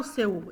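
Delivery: SEU as two syllables, se-u; the wrong split of "seu" into SE-U. Shown as a demonstration. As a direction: separate the U off in SEU. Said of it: "eu não falo seu".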